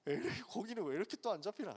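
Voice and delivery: a mild, muttering complaint; grumbling. Retold or imitated. Disciples grumbling over empty nets, mild grumble. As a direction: grumble half to yourself after a fruitless night. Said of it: "막 투덜투덜 하고 있는데".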